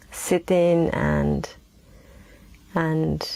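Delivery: unhurried meditation voice with long pauses; guided meditation. Real, not acted. Teacher settling listeners into the present moment, guided meditation. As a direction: ease them into stillness, leaving space between phrases.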